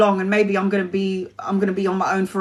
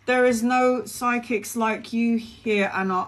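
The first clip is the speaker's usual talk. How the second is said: touched; 6 dB quieter, slower than usual. Real, not acted. Touched by viewer's compliment.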